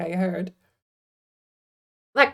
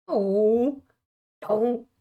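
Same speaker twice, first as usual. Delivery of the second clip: whinging Homer; 5 semitones higher, much slower than usual. Retold or imitated. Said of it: "Homer's intonation is just whinging".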